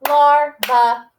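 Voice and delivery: Larva split into two beats, LAR-va; clapped syllables. Shown as a demonstration. Teacher clapping out the syllables of Larva with the class. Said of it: "Can you clap those syllables with me?".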